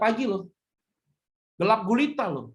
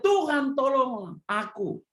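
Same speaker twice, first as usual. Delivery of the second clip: mild cry for help; 4 semitones higher, slower than usual. Acted. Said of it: "lalu berteriak".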